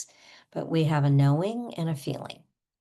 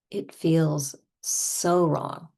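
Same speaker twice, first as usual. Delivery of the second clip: slow, emphatic pretend upset; played-up, drawn-out grievance; over-the-top distress; much slower than usual. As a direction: draw it out in mock indignation. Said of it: "we're gonna go over the top".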